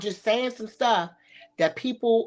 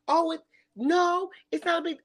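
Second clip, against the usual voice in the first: mock denial; 7 semitones higher than usual. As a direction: pretend it's no big deal. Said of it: "They'll be like".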